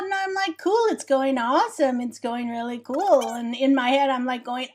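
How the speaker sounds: put-on a light, breezy valley girl telling her crush story. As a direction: gush like a teen valley girl about a boy.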